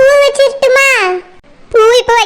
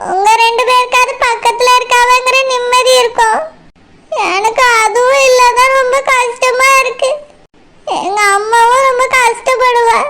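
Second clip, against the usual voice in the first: acted tearful lament; weepy bride fretting for mother; tearful worry. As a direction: voice a daughter's worry, close to tears. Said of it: "நீ கவலைப்படாத மைனா".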